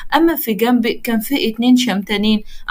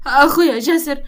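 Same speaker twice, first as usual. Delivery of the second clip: stunned; 2 semitones higher than usual. Acted. Daughter stunned repeating brother's name.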